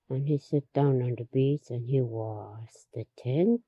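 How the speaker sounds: soft, whispered aside; lightly whispered narration; hushed retelling. Retold or imitated. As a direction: drop to a breathy whisper mid-story. Unvoiced whisper while retelling.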